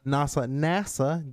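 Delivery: nasa, nasa slowly with a German lilt; drawn-out German-accented nasa. Pretend. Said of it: "my Russian German accent coming out".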